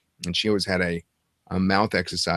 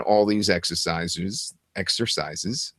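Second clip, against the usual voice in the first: exercises in a New York accent; 2 semitones lower, 3 dB quieter, slower than usual. Shown as a demonstration. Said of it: "That's my New York accent".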